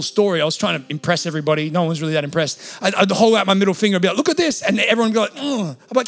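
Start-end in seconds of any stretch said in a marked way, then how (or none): 4.2-4.6 high, loud boast to onlookers; showing off. Retold or imitated. Showing off dislocated finger. 5.4-5.8 high-pitched mock "ugh" of revulsion; disgusted groan. Everyone recoils at bent finger.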